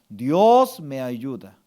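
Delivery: slow, low, with "Dios" drawn out; firm affirmation. Shown as a demonstration. Pastor gives congregation words to accept, slow firm affirmation. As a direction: declare it as settled truth. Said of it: "Usted tiene que aceptar".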